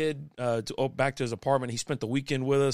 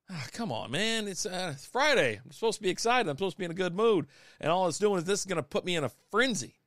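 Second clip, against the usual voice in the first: pitched-up grumbling complaint; mock exasperated protest; 5 semitones higher than usual. Dad hears his machine is acting up on Friday, mock exasperation. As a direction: retell it as a put-upon plea.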